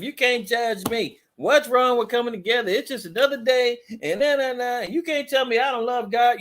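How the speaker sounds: mocking protest. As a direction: mimic their self-righteous excuses. Mocks uppity churchgoers' excuses.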